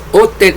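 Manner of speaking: hotel with a silent H; British pronunciation. Shown as a demonstration. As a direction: drop the H so hotel begins on the O. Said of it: "En inglés de Inglaterra se pronuncia".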